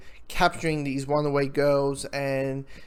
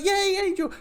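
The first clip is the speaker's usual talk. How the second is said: high-pitched happy greeting; excited cheer. Acted. Fan reacts to Angel turning up, excited cheer. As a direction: cheer for a returning favourite.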